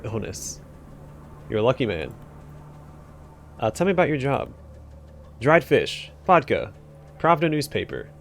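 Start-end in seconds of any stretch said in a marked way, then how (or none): 5.4-8.1 yelled outburst. Acted. Asked about his job, the clerk blurts a mild yelled tic. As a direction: burst out with the words, then settle. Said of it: "Sorry for yelling".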